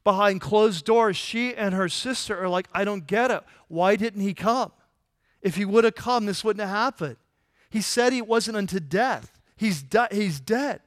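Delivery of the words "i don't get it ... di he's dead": mildly exasperated, upset questioning; a touch of hurt disbelief, pitch slightly lifted; bewildered protest. Acted. Two sisters asking behind closed doors, bewildered protest.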